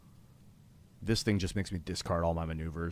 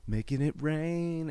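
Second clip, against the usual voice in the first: mock boast; 9 semitones higher, 4 dB louder, slower than usual. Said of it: "he's like".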